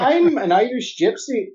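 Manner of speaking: high-pitched put-on Irish lilt; Irish accent. Shown as a demonstration. Reads requested sentence, high Irish accent. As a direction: lift it high in a leprechaun-like Irish brogue. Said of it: "in Irish".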